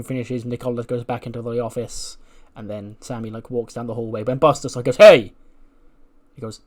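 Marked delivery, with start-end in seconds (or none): 5.0-5.3 loud, higher shout to stop someone; calling out. Acted. Wrestler calling after his ally, shouting. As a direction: holler down a hallway.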